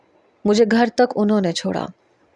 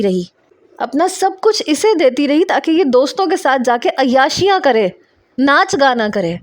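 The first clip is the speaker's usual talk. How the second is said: raised, higher furious retort; angry outburst; 6 semitones higher than usual. Acted. Wife lashing out at her husband in front of his father, angry and raised.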